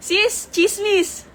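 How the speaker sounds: slow, loud, high sing-song call. Real, not acted. Vlogger calling viewers to hear gossip, drawn-out sing-song.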